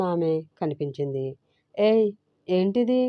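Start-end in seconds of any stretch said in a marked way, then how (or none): 1.8-3.0 angry. A narrator's reading. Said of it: "కోపంగా అడిగాడు సిద్ధు".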